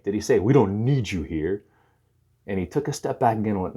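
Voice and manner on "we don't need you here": "We don't need you here" said slowly, with weight on "don't"; slow, deliberate "We don't need you here"; questioning dismissal. Retold or imitated. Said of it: "Did he say it that way?".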